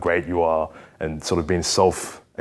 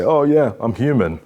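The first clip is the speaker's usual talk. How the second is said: imitated self-excuse; 3 semitones higher than usual. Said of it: "And you say".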